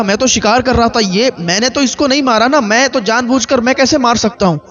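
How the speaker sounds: a frightened man crying out he meant no harm; hunter's panicked lament. Acted. Hunter to the grieving parents, panicked and pleading.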